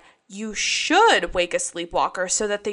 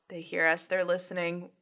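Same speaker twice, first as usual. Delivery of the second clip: spooky hush; 2 semitones lower, 8 dB quieter than usual. Pretend. Mock-paranoid about devices.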